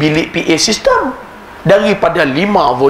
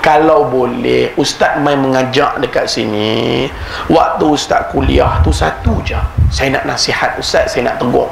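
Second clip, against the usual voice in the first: put-on Kedah accent; 4 semitones lower than usual. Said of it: "Saya ajuk orang Kedah".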